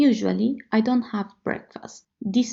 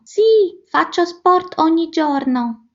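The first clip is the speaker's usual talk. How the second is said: excited; 7 semitones higher, 6 dB louder than usual. Acted. Acted enthusiastic answer.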